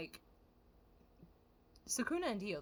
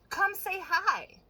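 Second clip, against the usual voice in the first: mock creepy invitation; 10 semitones higher, 6 dB louder, much slower than usual. Mocking the creepy boys' invitation.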